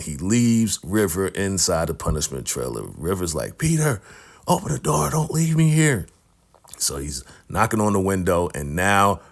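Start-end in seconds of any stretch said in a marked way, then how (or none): 3.6-6.1 high pleading, voice pitched way up; squeaky retold panic; mock desperate begging. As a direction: beg him not to go, half joking. River locked in, calls Peter.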